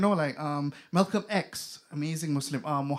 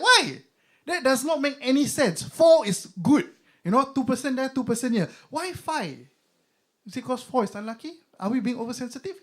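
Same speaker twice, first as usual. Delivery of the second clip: indignant overthinking; 6 semitones higher than usual. Retold or imitated.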